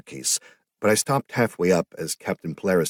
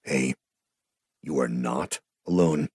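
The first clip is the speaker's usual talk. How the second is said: gentle reassurance; 4 semitones lower than usual. A narrator's reading. Ian comforting the grieving sister, slow and gentle. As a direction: reassure her tenderly, slowly. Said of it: "He gave her a weak smile".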